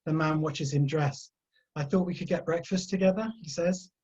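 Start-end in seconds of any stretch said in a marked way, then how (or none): 1.8-3.3 ending rises like a question; upward lilt. A narrator's reading. The man tells Tyler over breakfast plans, rising at the end. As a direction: lift the last words up, statement into query. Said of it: "letting his voice go up at the end of every sentence".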